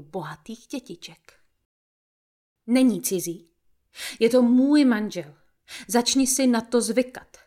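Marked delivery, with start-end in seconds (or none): 2.7-7.4 lightly voiced mother, insisting; a hint of a firm mother laying it down; more firmly. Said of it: "dodala důrazněji".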